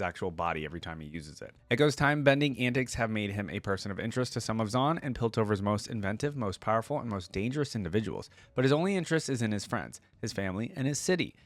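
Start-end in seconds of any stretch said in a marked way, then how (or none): 1.7-11.3 steady, even storytelling read; measured narrator voice reading the tale; story narration. Acted. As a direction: read the lore like an audiobook. Reads lore story aloud.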